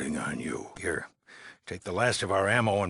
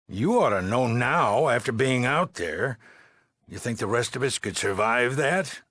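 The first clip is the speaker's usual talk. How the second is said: exasperated; 3 semitones higher than usual. Acted. Heated argument with the dweller.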